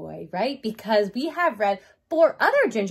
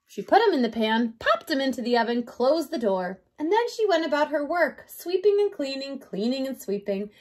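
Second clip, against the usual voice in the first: put-on measured, expressive read-aloud to children; story narration; 3 semitones higher than usual. A narrator's reading. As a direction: read a picture book to a young class. Reads picture book to children.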